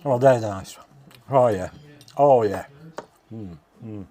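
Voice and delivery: talking while chewing; words round a bite of food; mouth full. Real, not acted. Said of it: "Excuse me talking with my mouth full".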